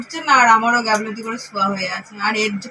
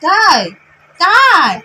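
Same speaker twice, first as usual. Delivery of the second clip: high, loud excited questions; 6 semitones higher, 7 dB louder, much slower than usual. Real, not acted. Answering baby's babble.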